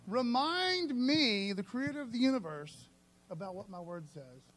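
slow, solemn, drawn-out; lightly voiced God. God telling believers to remind him of his promises, solemn. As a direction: speak as God, measured. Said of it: "God says".

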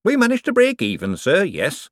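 as if it barely squeaked through; close-run thing. Acted. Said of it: "as if it was a close-run thing".

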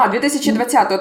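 surprised. Real, not acted. Corrects the heard year, surprised.

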